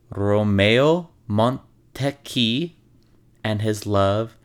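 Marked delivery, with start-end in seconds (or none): 0.1-2.7 slow Italian accent on "Romeo Montecchi"; a light Italian accent on the name. Shown as a demonstration. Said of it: "in my best Italian accent".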